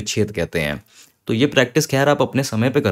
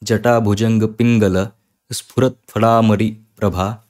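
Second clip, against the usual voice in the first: slow, word by word with pauses; slow syllable-split Sanskrit recitation; broken-up recitation. Shown as a demonstration. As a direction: break the verse into pieces slowly. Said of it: "तोड़-तोड़ के बोल पाओगे".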